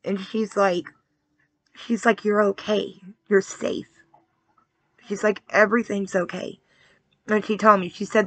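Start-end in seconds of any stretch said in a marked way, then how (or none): 2.2-3.9 soft, calming retold voice; gentle reassurance. Woman comforts crash victim at the car window, softly reassuring. 5.5-6.6 softly retold words of comfort; calm someone down, keeping it soft; gentle reassurance. Woman reassures crying crash victim, gently soothing.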